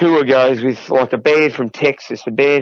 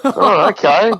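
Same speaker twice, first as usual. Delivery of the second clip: laughing through the okay; amused stunned acceptance; chuckling it off; 5 semitones higher, slower than usual. Retold or imitated. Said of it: "I went".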